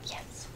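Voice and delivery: sudden gasp then a whispered yes; sharp excited gasp. Real, not acted. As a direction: gasp in real delight. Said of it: "that was extreme".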